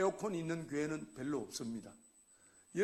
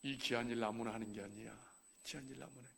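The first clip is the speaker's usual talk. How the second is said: quiet realisation; 6 semitones lower, 7 dB quieter than usual. Retold or imitated. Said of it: "이런 생각이 듭니다".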